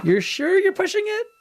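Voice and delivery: high, slow put-on radio controller voice; mission control voice. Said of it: "I really want the mission control to say".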